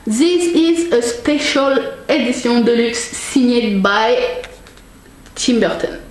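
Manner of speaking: slow, careful English with a strong French accent. Real, not acted. Reading the box's English label to viewers in French-accented English. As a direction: read it out slowly in heavy French-accented English. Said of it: "alors avec mon accent, super accent".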